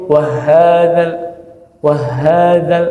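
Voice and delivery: "wa hadzal" with the ha doubled as by a tasydid; colliding ha. Shown as a demonstration. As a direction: chant "wa hadzal", wa running hard into a doubled ha. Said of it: "Seperti ada tasydid pada huruf". ("wa hadzal" seolah ha bertasydid)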